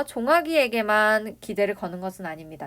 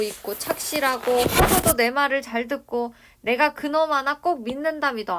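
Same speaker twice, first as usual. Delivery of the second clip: put-on higher, slightly louder old dialect speaker; lightly voiced doting grandfather; 5 semitones higher, 5 dB louder than usual. Grandfather praises Jonghak to his brother, lightly acted pride. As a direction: gush with trust, as a lightly acted elder.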